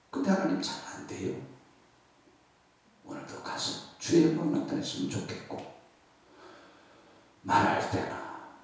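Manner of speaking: mostly whispered personal prayer; heartfelt prayer. Acted. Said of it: "preacher prays aloud".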